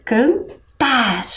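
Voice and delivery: "Cantar" split, with weight on "tar"; "Cantar" in two syllables, ending strong; strong final sound. Shown as a demonstration. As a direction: land firmly on the "tar" of "Cantar". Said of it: "tem o som bem forte".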